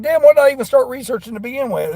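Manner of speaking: high-pitched baffled self-quote; exasperated and bewildered, hammed up a little; mock exasperation. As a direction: act out losing the thread, playfully. Voicing a researcher's baffled reaction.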